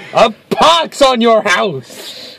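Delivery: slow, drawn-out stage curse; a hammy Shakespearean curse; arch witty period comedy. Pretend. Mock curse repeated, extended.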